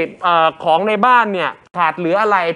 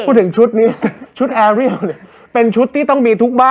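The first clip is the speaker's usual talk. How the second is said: talking through a laugh, a bit higher and louder; 5 semitones higher, 3 dB louder than usual. Real, not acted. Host laughing to co-host about the Ariel dress. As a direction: chuckle the words out.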